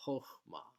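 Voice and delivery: "chokhmah" with an o in the first syllable; "chokhmah", rounded o first, ah last; o vowel. Shown as a demonstration. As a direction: say "chokhmah" as khokh-MAH. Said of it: "it's pronounced O".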